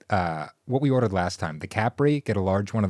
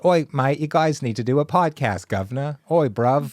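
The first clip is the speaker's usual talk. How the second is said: loud, high mock-British bloke; cartoon British geezer, pushed high; hammed-up British agent impression; British accent; 5 semitones higher, 3 dB louder than usual. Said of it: "he's British".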